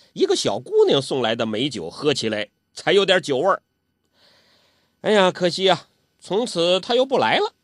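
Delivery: put-on high old man's voice, sometimes dropping to a hush; old urchin complaining and reminiscing; Zhou Botong grumbling. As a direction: gripe about the weak wine like a sulky old drunk. Zhou Botong chatting over wine.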